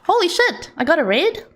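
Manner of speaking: real high-pitched, giddy disbelief; gasping and laughing in genuine shock; caught by surprise. Real, not acted. Streamer caught by an unexpected raid, astonished. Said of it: "you caught me by surprise".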